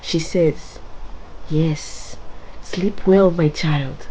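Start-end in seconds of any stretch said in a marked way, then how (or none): 1.5-4.1 snarling. Acted.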